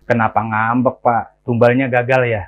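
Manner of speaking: mildly mocking jab; snide taunt. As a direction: needle him, lightly sarcastic. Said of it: "berkata dengan nyinyir kepada security".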